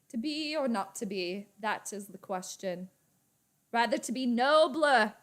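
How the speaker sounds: mock stage Shakespeare, lightly done; half-hearted attempt at a soliloquy; Shakespearean recitation. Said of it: "Don't ask me to do any Shakespeare".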